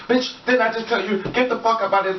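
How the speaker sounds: high-pitched mock rant at the wall; mock screaming. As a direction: act out a crazy outburst, no real volume. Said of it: "you start screaming".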